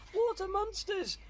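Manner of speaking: high, loud drawn-out shriek; alarmed cry. A narrator's reading. Sister sees monsters in the water, high alarmed cry. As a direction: stretch out the frightened cry. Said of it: "and one cried".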